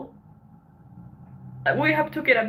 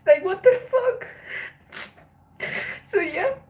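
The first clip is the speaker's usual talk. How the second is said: tearful outrage, fighting back sobs; crying; 6 semitones higher, 5 dB louder than usual. Real, not acted. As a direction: voice breaking into tears, pitched up. Upset about attack victim mocked online.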